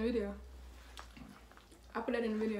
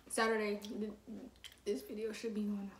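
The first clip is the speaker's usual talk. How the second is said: whispering; 6 dB quieter than usual. Real, not acted. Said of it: "unvoiced whisper".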